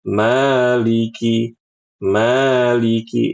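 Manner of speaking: Maliki with the voice swung up and down; sway the pitch through Maliki; mock sing-song Maliki; wrongly swung voice. Shown as a demonstration. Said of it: "jangan diayun-ayun begitu".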